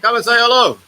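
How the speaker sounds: loud, high call to someone away. Real, not acted. Inviting Ferry to greet viewers, calling loudly. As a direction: beckon him over loudly.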